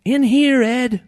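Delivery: high, loud shrimp voices hailing Ed; calling out. A narrator's reading. Shrimp hail the fisherman from the bait bucket, calling out. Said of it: "they called".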